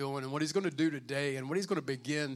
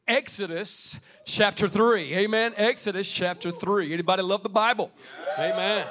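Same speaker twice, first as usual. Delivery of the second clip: preaching call; 5 semitones higher, 6 dB louder than usual. Real, not acted. Announcing scripture loudly.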